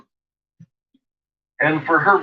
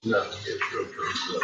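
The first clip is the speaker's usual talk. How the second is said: whispering; 5 semitones lower, 11 dB quieter than usual. Real, not acted. Whispering near the dog.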